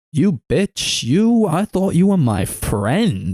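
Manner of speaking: high, slow, wailing melodrama; hammed-up betrayal, pitch swooping up; mock betrayed friend. Imitating stabbed girl confronting her friend, hammed-up betrayal. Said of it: "she's like".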